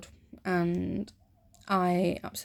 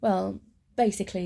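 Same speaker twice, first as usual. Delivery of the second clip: lightly voiced filler habit, said lazily; mocking own habit. Shown as a demonstration. Demonstrating her filler habit to the viewers, lightly mocking. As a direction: show how she says it all the time. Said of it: "just like that".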